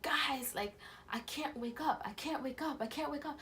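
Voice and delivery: retold panic. Dreamer telling family they can't wake up, panicked. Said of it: "at my grandma's house panicking".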